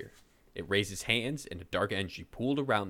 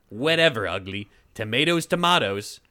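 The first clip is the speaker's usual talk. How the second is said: mocking taunt; 6 dB louder than usual. Witch mocks Braun.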